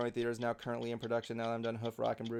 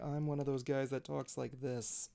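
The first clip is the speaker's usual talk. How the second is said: monotone stoner voice; 4 dB quieter than usual. Retold or imitated. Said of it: "got this monotone voice".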